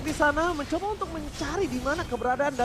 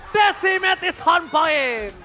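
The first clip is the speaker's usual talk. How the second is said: slow hype catchphrase; 3 semitones higher, much slower than usual. Real, not acted. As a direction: stretch the catchphrase out. Caster catchphrase shout.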